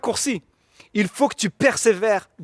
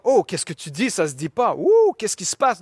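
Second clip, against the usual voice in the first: mock shock. Imagined disciples reacting to Jesus' words, mock shocked. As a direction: play at being shocked, lightly hammed-up. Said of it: "ne sont pas choqués en disant".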